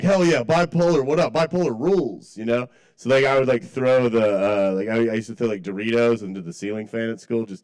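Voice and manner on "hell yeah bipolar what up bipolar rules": mock cheering. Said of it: "so I'm like".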